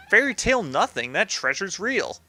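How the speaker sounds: cartoon gangster retort; protesting henchman. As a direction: insist like an offended mob underling.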